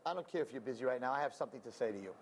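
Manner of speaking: low, fast and cold; mother-in-law brushing off the excuse; stern mother-in-law. Retold or imitated. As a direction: cut her off sharply. Mother-in-law scolding on phone.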